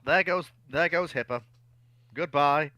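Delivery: usual speaking voice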